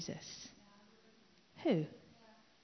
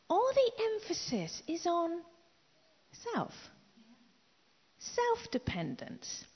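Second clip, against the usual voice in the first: whispered; 9 semitones higher than usual. Real, not acted. Unvoiced, slow.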